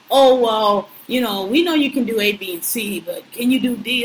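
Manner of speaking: sing-song mock of a fussy interviewer. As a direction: mimic a picky interviewer, condescending. Mocking picky bank interviewers.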